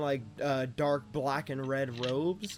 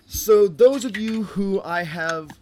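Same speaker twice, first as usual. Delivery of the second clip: king voice; 4 dB louder than usual. Acted. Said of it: "so the king continues on".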